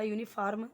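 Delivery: "यूनिफॉर्म" with long aa and sounded r; mispronounced uniform. Shown as a demonstration. Teacher shows a second wrong reading, "यूनिफॉर्म" as yoo-ni-faarm. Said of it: "नहीं पढ़ना है".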